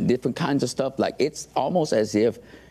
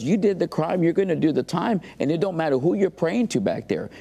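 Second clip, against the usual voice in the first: higher-pitched, imitated scolding; retold anger; 6 semitones higher than usual. Lawyer telling inmate he'll do time, retold anger. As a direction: lay down the law as the irritated lawyer. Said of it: "And he got mad".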